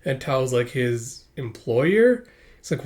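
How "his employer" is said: hesitant question rising on EMPLOYER; rising inflection. Acted. Tao asked who she is to him, rising inflection on EMPLOYER. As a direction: draw out EMPLOYER, lifting into a question at the end. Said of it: "Why the rising inflection?".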